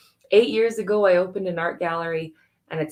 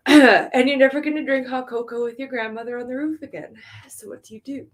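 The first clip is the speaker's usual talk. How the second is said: choked up; 5 semitones higher, 5 dB louder than usual. Real, not acted. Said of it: "I still cry".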